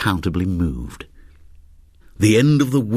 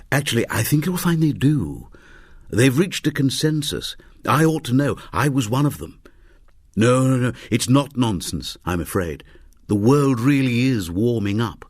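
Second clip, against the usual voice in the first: a touch higher, gently correcting him; lightly voiced scientist; 5 semitones higher than usual. Scientist correcting a fellow passenger, lightly voiced, a touch higher. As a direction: set him straight politely, pitched up.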